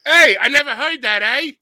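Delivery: put-on high, loud Philly-sounding accent; botched Canadian, Philly accent. Co-host retrying his Canadian impression, Philly-like accent. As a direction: attempt Canadian, land in Philly. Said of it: "sound like a guy from Philly".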